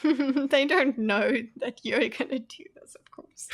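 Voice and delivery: laughing whispered aside; whispering. Real, not acted. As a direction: breathe it with a giggle.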